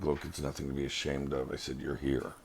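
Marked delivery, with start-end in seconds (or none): 0.0-1.5 a touch of soft comfort, retold; gentle reassurance. Reassuring a ashamed friend in the restaurant, softly. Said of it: "I was trying to reassure her". 1.8-2.3 gentle reassurance. Retold or imitated. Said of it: "I was trying to reassure her".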